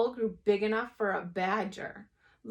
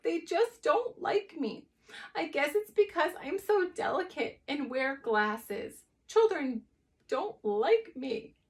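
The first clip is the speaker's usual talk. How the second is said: higher, slow self-pitying whine; wailing; 7 semitones higher, 4 dB louder, slower than usual. Acted. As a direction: sob out your complaint. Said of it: "wailed Fetlock".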